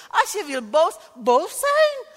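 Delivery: high, loud proclamation; loud declaration. Real, not acted. Preacher telling congregation anger is allowed, a high loud proclamation. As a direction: proclaim it with force.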